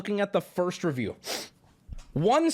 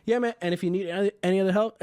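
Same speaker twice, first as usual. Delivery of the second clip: put-on Russian accent; faster than usual. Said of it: "was that a Russian accent?".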